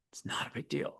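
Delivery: hushed whisper, no voice; whispered reassurance. Acted. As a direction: whisper it away, very softly. Mock argument, dismissing it in whisper.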